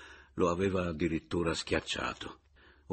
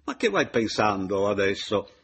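interrupting exclamation; 3 semitones higher, 7 dB louder than usual. A narrator's reading. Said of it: "esclamò interrompendolo il Paleari".

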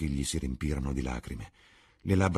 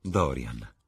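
lingering on the name; 4 semitones lower than usual. Acted. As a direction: savour Dorian like honey. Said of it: "la sua voce cadenzata come musica indugiò sul nome". (Sibyl pronuncia Dorian lenta e dolce)

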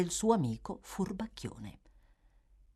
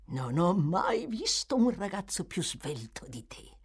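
lightly voiced pleased old man, slowing down; a sly old teacher praising his pupil; old Fagin voice; 4 semitones lower than usual. Fagin praising Oliver after the pickpocket test, lightly voiced pleased old man.

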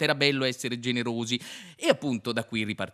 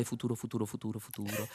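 fading ghostly echo; 9 dB quieter, faster than usual. Acted. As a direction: echo dying away to softer. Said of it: "ghost echo fading".

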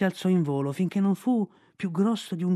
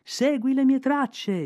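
high, slow, drawn-out shout; boy shouting to the kite overhead, slow and high; 10 semitones higher, 3 dB louder, much slower than usual. Acted. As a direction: shout it slowly upward, stretching every word. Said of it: "gridò Mowgli".

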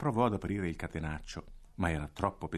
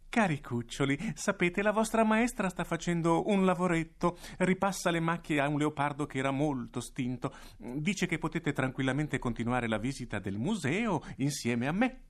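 voce acuta, sorridente e ingannevole; sorridendo; 9 semitones higher than usual. Acted. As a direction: incanta i bambini con un sorriso falso. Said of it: "disse sorridendo". (il direttore sorride ai bambini mentre li inganna)

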